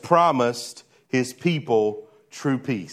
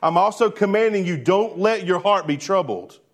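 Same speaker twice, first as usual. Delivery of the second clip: commanding, higher-pitched insistence; slightly raised voice; 4 semitones higher than usual. Acted. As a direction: issue a firm command, voice a little raised. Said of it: "he may have raised his voice a little bit".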